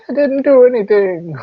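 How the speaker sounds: high-pitched imitated protest; mock protest. Student answering the telling-off, mock protest. Acting out own protest when scolded.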